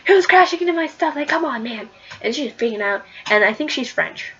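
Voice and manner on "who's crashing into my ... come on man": high, loud indignant yelp at the intruder; mock angry yell. Poison Ivy yelling at whoever crashed into her greenhouse, mock angry shout. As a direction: play it as a startled, cross gardener. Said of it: "she's got a gun, like".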